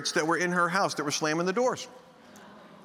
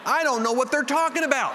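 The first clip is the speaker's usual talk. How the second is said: baffled protest; 8 semitones higher, 3 dB louder than usual. Acted. Bewildered bystander between the two.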